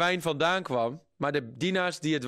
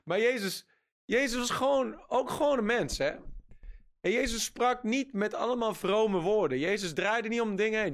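higher, emphatic preaching; rising fervour; 5 semitones higher than usual. Real, not acted. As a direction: build the point with fire. (vurig en nadrukkelijk gepredikt)

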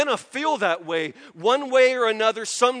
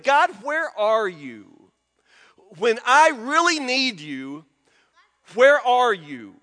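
slow, loud, drawn-out plea; desperate cry to God; 5 dB louder, slower than usual. Acted. Preacher voicing the poem's question to God, desperate cry. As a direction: call out to God, stretching each word. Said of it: "it's about that feeling of".

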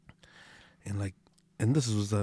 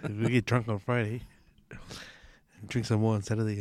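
conspiratorial whisper, as if confessing a secret; whispered joke; 2 semitones lower, 3 dB quieter than usual. Pretend. Joking to mates about Matariki weekend, playful whisper. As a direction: whisper it like a naughty plan.

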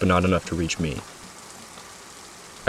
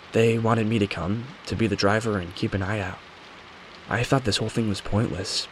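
lightly voiced witness telling her account; Kara Luna; 4 dB quieter than usual. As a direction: recount it a touch softer, as a measured confession.

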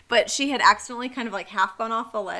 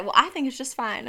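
mimicked Southern accent; 2 semitones higher than usual. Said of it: "I just mimicked it".

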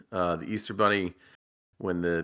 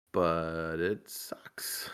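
whisper; 3 semitones lower, 5 dB quieter, much slower than usual. Real, not acted. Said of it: "aside about sleep training".

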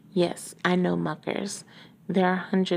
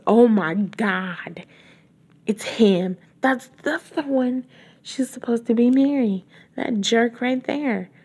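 louder, high-pitched disbelief; excited outrage; 4 semitones higher, 5 dB louder than usual. Real, not acted. Reader recognizing the villain, excited outrage. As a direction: react loudly to the reveal.

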